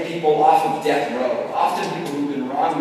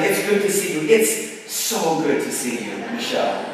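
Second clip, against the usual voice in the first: warm greeting. Retold or imitated. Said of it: "And so now I'm saying".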